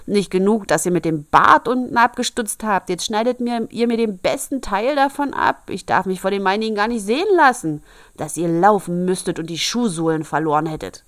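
high, loud outraged dwarf; furious dwarf shout. Acted. Dwarf screaming at the girls for cutting his beard, high and loud. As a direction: scream at them over the lost beard. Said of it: "schrie er sie an".

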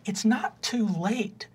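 a touch of tearful tenderness, lightly voiced; misty-eyed mom. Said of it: "a little misty-eyed and she says".

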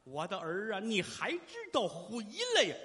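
mild theatrical wail of reunion; tearful old mother. Acted. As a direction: stretch the cry with rising emotion. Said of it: "放声痛哭".

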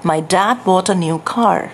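slow British English car, aspirated kh on car; British accent. Shown as a demonstration. Trainer shows students the British accent version, slowly. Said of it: "Britain accent से बोलते हैं".

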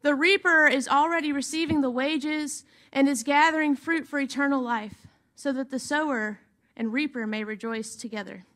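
measured, solemn reading of the gospel; scripture reading. Acted. Pastor reads gospel to the congregation, solemn and measured. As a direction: read the passage to the congregation, steady and reverent.

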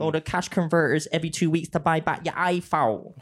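light attempt at a Bristol accent; rough Bristol-accent impression; Slowey. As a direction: imitate a mate's Bristol storytelling, loosely. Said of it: "Does that sound like Slowey".

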